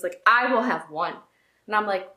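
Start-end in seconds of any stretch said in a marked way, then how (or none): 0.3-1.2 put-on restrained retelling of an angry child; understated imitation of a mad little boy. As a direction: lay it down firmly without shouting. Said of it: "he was so mad".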